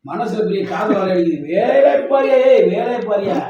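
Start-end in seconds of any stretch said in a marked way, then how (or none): 1.5-3.4 raised, louder scolding that eases slightly; real bickering, voice pushed up; loud retort. Real, not acted. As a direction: call it out sharply in banter. Snapping back in family banter.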